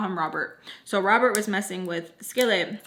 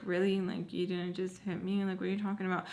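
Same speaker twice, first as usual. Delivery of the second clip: hushed angry whisper; 8 dB quieter, faster than usual. Retold or imitated. To her ex in the store, quietly furious and hushed. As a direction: keep it down but let the anger through. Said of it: "So I'm talking like this so, like, no one else can really hear".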